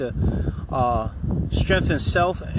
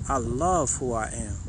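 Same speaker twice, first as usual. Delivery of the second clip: like you're in love; 4 semitones lower, 4 dB quieter than usual. Shown as a demonstration. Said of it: "Say it like you in love".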